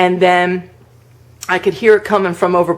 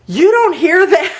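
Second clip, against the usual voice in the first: high, incredulous mock alarm; pitched-up, agitated question; retold freaked-out; 11 semitones higher, 3 dB louder than usual. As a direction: imitate a spooked husband's disbelief. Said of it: "like, freaked out".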